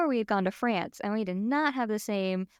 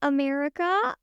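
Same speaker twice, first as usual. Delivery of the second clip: sheepish questioning rise, pitched up; reluctant admission; 4 semitones higher than usual. Retold or imitated. Tourist admitting origins in Paris, reluctant. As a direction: offer it tentatively, as if testing the reaction. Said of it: "Why do you say it like that".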